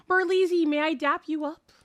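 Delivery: self-mocking replay of an odd request; odd way of asking. Streamer replaying how she asked Berleezy for a dap, self-mocking. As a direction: mimic your own oddly formal ask, pitched a little up. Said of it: "Why did I say it like that?".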